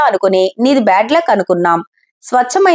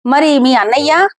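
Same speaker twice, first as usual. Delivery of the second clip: confused; 4 semitones higher than usual. Acted. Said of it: "అయోమయంగా అడిగింది".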